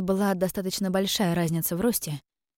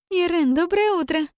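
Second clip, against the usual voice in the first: much higher, louder singsong call; sister's singsong greeting; 11 semitones higher, 5 dB louder than usual. Acted. Sly sister greeting Iren in the garden, high singsong. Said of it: "пропела она".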